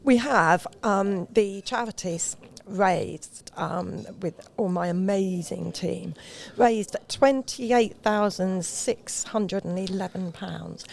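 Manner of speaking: slow, proud announcement; announcing big news. Real, not acted. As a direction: build up the big number slowly. Announcing charity total.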